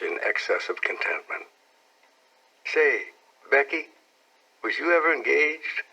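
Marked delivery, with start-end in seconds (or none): 2.7-5.8 put-on eager boy. A narrator's reading. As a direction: ask like a shy boy testing her. Tom asks, voice much higher.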